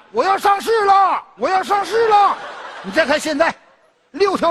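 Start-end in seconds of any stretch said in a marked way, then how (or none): 0.1-2.3 drawn-out bragging cry, slowed down; mock boastful shout. Cousin mocking Wang Dagang's boasting, slow bragging shout. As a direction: shout it like a show-off hitting the big time. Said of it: "一边开道一边喊".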